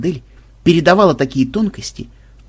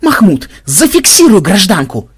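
loud, raised command; barked order; 5 semitones higher, 5 dB louder than usual. A narrator's reading. Ксенобайт ordering Махмуд to restrain madam, barking. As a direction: bark the order over the scuffle. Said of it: "рявкнул Ксенобайт".

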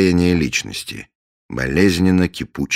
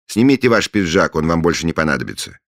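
loud voice from the next room; through a wall; 4 semitones higher, 5 dB louder, faster than usual. Acted. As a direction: speak from behind a door. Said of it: "Голос звучал оттуда".

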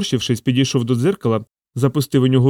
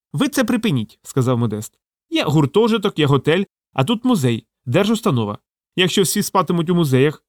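higher, lightly voiced lecturing official; stern bureaucrat; 4 semitones higher than usual. Modest lectures Sasha about sleeping in the museum, a hint of stern officialdom. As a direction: scold like a petty manager, lightly.

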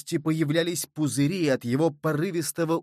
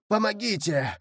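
higher, desperate cry of help; plaintive call for help; 6 semitones higher than usual. Acted. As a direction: call out from the water, pleading for rescue. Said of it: "жалобный голос".

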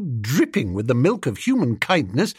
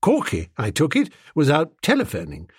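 usual speaking voice

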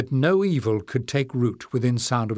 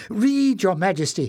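put-on much higher, pleading old librarian; begging; 7 semitones higher than usual. Old librarian begs the king to read, high and pleading. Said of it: "he begged".

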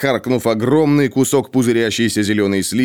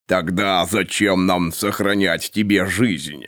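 insinuating; slower than usual. Acted. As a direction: purr the threat slowly. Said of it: "вкрадчиво спросил".

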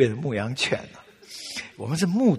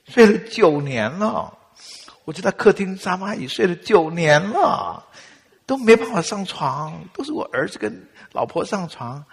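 tearful complaint; 3 semitones higher, 4 dB louder than usual. Retold or imitated. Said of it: "真的都快哭出来了".

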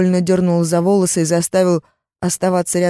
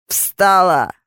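yell; 4 dB louder than usual. Acted. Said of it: "заорал".

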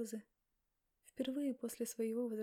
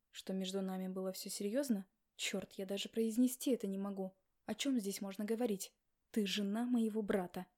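frustrated outburst; 4 dB louder than usual. Acted. Max's frustration grows louder.

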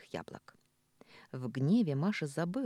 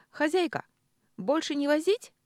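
ordinary delivery

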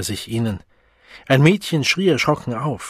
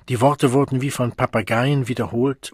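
ordinary delivery

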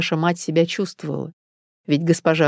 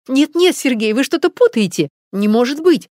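higher and louder, refusing to believe; shocked disbelief; 8 semitones higher, 4 dB louder than usual. Acted. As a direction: protest that it can't be true. Wife refuses to believe the news. (потрясённая женщина не верит в новость, взволнованно и громче)

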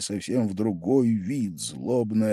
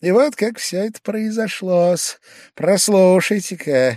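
confiding storyteller; 11 semitones higher, 6 dB louder than usual. A narrator's reading. Pavel Pavlovich starting his story to Velchaninov, high-pitched. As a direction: lean in and begin the tale.

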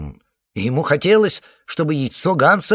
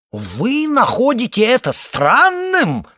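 slow, high, loud outraged cry; breaking into a shout; 12 semitones higher, 7 dB louder, slower than usual. A narrator's reading. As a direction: voice cracks upward into a yell. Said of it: "сорвалось на крик".

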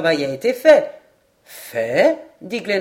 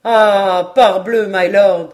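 loud cry to the lord; exclaiming; 7 dB louder, slower than usual. A narrator's reading. Paganel answering Glenarvan's odd reasoning, exclaiming. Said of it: "s'écria Paganel".

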